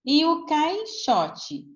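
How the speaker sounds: high, slow, drawn-out caixote; word said slowly. Shown as a demonstration. Teacher to class, slowly drawing out "caixote". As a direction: stretch "caixote" out high so the class hears cai. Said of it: "então o A e o I".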